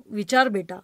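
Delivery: poem recitation. Acted. Reciting a poem about grandfather, tender verse recital. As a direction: recite with the fog refrain fading away.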